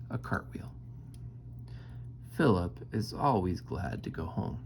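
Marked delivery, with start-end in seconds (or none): 0.1-0.7 whispering. Acted. Whispered aside.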